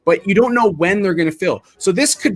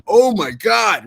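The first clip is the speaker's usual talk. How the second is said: drawn-out, higher-pitched mock dismay; mock shock; 4 semitones higher, much slower than usual. Analyst imitating traders watching the price drop back, mock shock. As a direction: stretch it out like a stunned trader.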